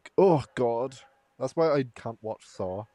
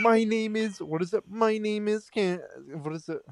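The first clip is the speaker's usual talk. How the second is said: robotic voice; 8 semitones higher than usual. Pretend. Friend acts out a creepy chain post, lightly robotic voice. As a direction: speak like a stiff robot reading a script. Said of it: "the robotic voice".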